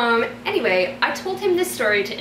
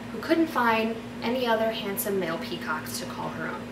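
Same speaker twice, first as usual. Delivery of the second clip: story narration. Acted. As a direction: read it like a bedtime story. Reads her fairy tale aloud.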